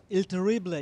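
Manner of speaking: Il Terrible said the Spanish way, ending on a light "bleh" with no extra "i"; Spanish-style name. Shown as a demonstration. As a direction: say Il Terrible as a Spanish speaker would, four syllables. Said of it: "I'm going to tell it in a Spanish manner".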